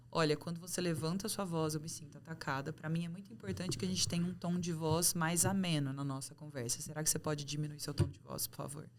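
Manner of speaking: pedido calmo, baixando a voz no fim; measured, polite request that softens toward the end; comunicação não violenta. Acted. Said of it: "como que seriam esses quatro passos na prática?". (pedido sereno e sem julgamento)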